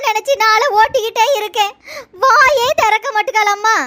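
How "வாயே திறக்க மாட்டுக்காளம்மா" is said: crying. Acted. Mother weeps about daughter.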